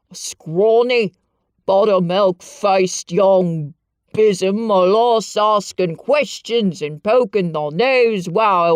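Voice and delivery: loud, slow Yorkshire tirade; haranguing old man. A narrator's reading. Ben harangues Mary from the ladder, loud and angry. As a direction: berate the girl. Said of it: "he harangued".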